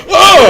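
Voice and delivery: high, loud "oh!" of surprise; startled yelp. Acted. Gunman snuck up on from behind, high startled yelp. Startled character spins round.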